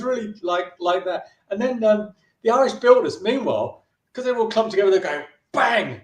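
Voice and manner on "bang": higher, punchy spoken bang; imitated bang. Builders coming together like dominoes, imitated bang. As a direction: voice the noise of a sudden knock.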